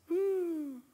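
high marvelling "mm"; savouring hum. Acted. Old woman marvels at a ripe pear, high hum. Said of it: "she'd go like this".

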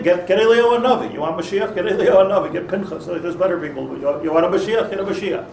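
pushy, insistent retort tossed back at God; taunting. Retold or imitated. Moshe taunting God: mildly mocking, insistent. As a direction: throw it back like a challenge. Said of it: "almost like a taunting".

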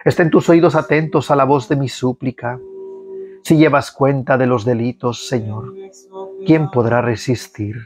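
measured liturgical reading of the psalm; psalm recitation. Acted. Prayer leader leading online faithful in psalm, liturgical reading. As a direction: lead the congregation through the psalm.

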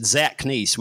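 "Zatknis" again in a lightly mocked Russian accent; imitated Russian word. Retelling the man's one Russian word, light Russian accent. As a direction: toss out "Zatknis" as he did. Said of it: "He said".

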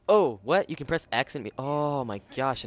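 loud amazed discovery; surprised. Real, not acted. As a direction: blurt out your surprise. Discovering a button.

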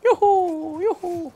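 high whooping battle cry; power up scream. Pretend. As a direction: yell it like a charge. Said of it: "Voy corriendo con el grito de poder".

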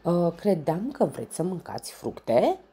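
shouting up. A narrator's reading. Tafiti calling up to the lion in the tree, shouting. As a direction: call up into the tree. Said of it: "strigă Tafiti".

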